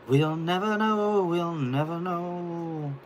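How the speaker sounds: high, drawn-out mock wonder; mock-mysterious refrain. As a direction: stretch it out high, like an unsolved mystery. Mock-dramatic repeated refrain.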